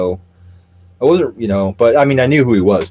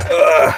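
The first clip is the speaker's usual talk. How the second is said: higher-pitched, drawn-out ugh; throaty groan; 9 semitones higher, 4 dB louder than usual. Real, not acted. Streamer waiting for something to happen, groaning. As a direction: let out a weary groan.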